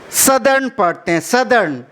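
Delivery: सदर्न as SUH-dern, short first vowel; correct pronunciation. Shown as a demonstration. Teacher corrects a common misreading for students. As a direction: model सदर्न with a short "suh" and a falling tune. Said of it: "साउथर्न या साउदर्न नहीं पढ़ के".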